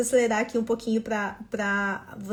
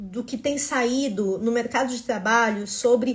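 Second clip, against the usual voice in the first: ordinary talk, nothing marked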